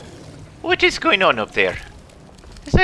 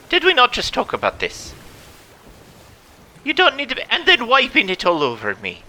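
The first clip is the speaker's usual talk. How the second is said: mock scolding; 2 semitones higher, 4 dB louder than usual. Captain scolds messy monkey.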